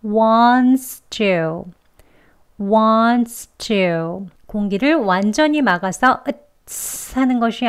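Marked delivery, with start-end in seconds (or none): 0.0-4.3 wants to run together with a light ts; linked ts sound. Shown as a demonstration. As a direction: let air slip out on the ts of wants to. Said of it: "한번 해볼게요".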